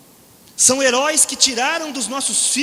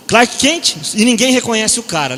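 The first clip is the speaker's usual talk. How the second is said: Clark Kent; 8 dB louder than usual. Shown as a demonstration. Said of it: "a pessoa faz assim".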